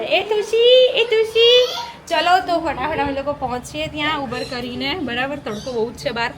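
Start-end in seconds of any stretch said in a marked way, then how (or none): 0.0-1.7 imitating a child's call. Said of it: "અમે નિશુ આવું બૂમ પાડે".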